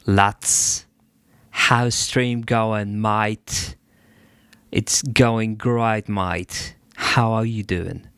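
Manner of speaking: hammed-up mishmash of British accents, drawn out; mixed UK accent. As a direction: put on a muddled UK lad accent. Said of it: "a fuckload of U K accents".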